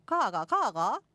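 big swooping Gyeongsang tones; Gyeongsang dialect. Shown as a demonstration. Host challenging listeners to try, Gyeongsang accent. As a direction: exaggerate the dialect's pitch swings. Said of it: "가가, 가가는 갱상도 말인데".

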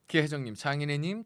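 normal talking voice

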